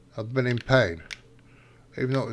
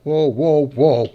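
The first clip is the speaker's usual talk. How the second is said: loud startled whoa; alarmed, calling out whoa; surprised whoa; 7 dB louder, much slower than usual. Real, not acted. Game vehicle lurches.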